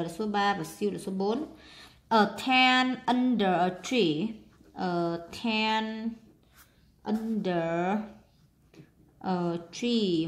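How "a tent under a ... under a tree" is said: a tent under a tree read slowly; slow careful reading. Shown as a demonstration. Teacher reading the sentence slowly to pupils. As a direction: stretch each word for the kids. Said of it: "một cái lều dưới một cái cây".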